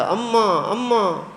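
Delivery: put-on high-pitched frantic cry of a running boy; panicked calling. A narrator's reading. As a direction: call out to mother in alarm. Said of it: "دوڑتا، ہانپتا، کانپتا آیا". (گھبرا کر پکارنا)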